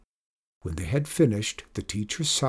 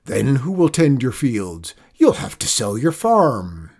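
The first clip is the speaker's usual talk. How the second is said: louder, emphatic doom-saying; crying out; 5 dB louder than usual. A narrator's reading. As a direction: press the worry on a friend. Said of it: "cried Zeke".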